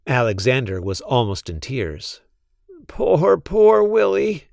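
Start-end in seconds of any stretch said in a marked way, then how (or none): 2.9-4.5 sad. Acted. Almost in tears.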